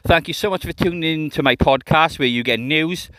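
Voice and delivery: booming ringmaster announcement; loud showman introduction. Pretend. Podcast intro announcer style.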